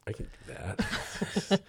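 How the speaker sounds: high, slow, breathy laugh in the words; laughing quote. Retold or imitated. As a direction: laugh through the quoted boast. Laughs while mimicking artists.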